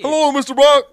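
loud, high, mock sinister greeting; menacing greeting. Villain greeting Eddie at the door, loud and mocking. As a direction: greet him like a waiting villain.

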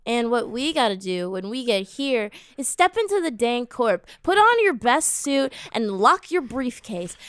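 playful announcer delivery, measured; hammed-up show intro; segment introduction. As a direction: introduce the segment with mock ceremony. Announces a recurring court segment.

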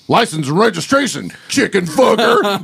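ringtone quote. Retold or imitated. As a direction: deliver it like the cop in the movie. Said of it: "and you hear".

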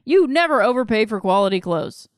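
upbeat sponsor read, lightly sold. Acted. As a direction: sell the clothes brand to listeners. Host reads sponsor ad.

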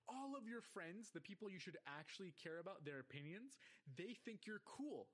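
exasperated scolding. Retold or imitated. Viewer lecturing a cartoon kid about friends, exasperated. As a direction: press each point home, pitch climbing.

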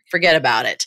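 put-on light Italian-American accent on "forget about it". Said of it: "forget about it with an Italian accent".

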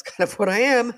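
a real embarrassed laugh breaking through the words; sheepish self-mocking laugh; laughing at herself. Real, not acted. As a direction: laugh it off as you admit it. Admits being an emotional wreck.

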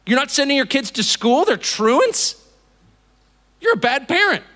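acted indignant disbelief; incredulous scolding. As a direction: accuse a bad parent, appalled. Plays accuser of bad parent.

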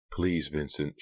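soft, begging plea; pleading. Acted. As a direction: beg him gently. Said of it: "she pleaded".

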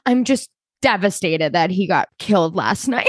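lightly hammed-up grief, cracking into a laugh; mock devastated. Co-host imitating a contestant's TV confessional, mock devastated. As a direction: imitate a tearful confessional, barely containing amusement. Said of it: "a drama off in the talking heads".

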